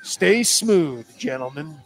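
mock broadcast voice missing the bass; failed deep voice. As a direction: strain for bass like a teen before puberty. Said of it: "someone before they hit puberty trying to sound".

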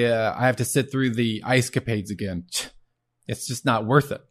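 half-hearted impression of a fretful movie comedian; lightly put-on deadpan griping, barely changed from own voice; bad Woody Allen. Lecturer quoting a film's meaning-of-life searcher, weak Woody Allen impression. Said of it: "that was my bad Woody Allen impression".

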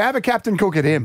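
high-pitched Aussie tradie banter; blokey Aussie tradie ribbing a mate; aussie tradesman. Pretend. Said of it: "he started using tradie sayings".

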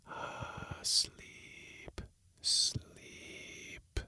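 breath-only, stretched whisper; whispering voices. A narrator's reading. Hidden voices lull the man to sleep, whispering. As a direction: sigh it out in a long whisper. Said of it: "The voices whispered".

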